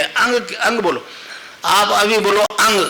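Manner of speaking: अंग with a hard nasal stroke at the end; अंग said slowly, landing on the ng; mantra syllable demo. Shown as a demonstration. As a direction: strike the ng of अंग. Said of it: "यहाँ stroke लगेगा".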